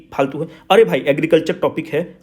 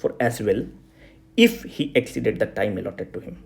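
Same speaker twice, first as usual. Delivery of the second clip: slow and lower, word by word; slow dictation; 6 semitones lower, 6 dB quieter, much slower than usual. Shown as a demonstration. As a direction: dictate the line for the answer sheet. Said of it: "ये कहीं भी आएगा इसको चिपका देना".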